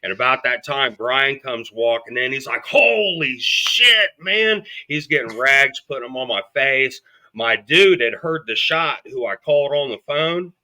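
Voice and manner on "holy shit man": much higher, slow, drawn-out "Holy shit"; shocked exclamation. Retold or imitated. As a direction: gasp it out as if seeing the blood. Friend walks in, sees him shot.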